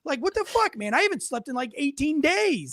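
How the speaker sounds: high, half-shouted protest from the dog; a fed-up dog yelling back at the farmer; exasperated sheepdog. Retold or imitated. Sheepdog answering the farmer, high exasperated yell. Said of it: "And he's like".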